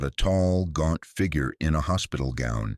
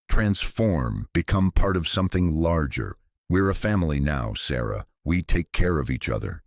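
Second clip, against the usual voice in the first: lightly voiced coaxing ghosts. Trapped patients coax Sarah to join them, lightly eerie. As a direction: lure her in gently, like a hungry family.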